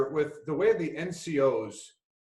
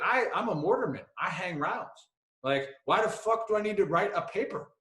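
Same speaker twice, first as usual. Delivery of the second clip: higher, lightly put-on accent of a griping buddy; King's Buddy Beckwith accent; 5 semitones higher than usual. Mortarman griping about writing papers, protesting in mimicked accent. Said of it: "his Buddy Beckwith accent".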